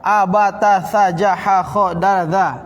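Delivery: letters read as open fathah syllables: "a, ba, ta"; read with harakat. Shown as a demonstration. Teacher shows students letters read with harakat, open syllables. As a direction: sound out "sa, ja, ha" with a short-a vowel mark. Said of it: "Kalau saya kasih harokat".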